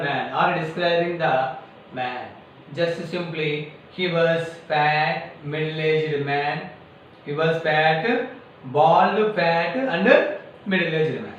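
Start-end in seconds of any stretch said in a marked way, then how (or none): none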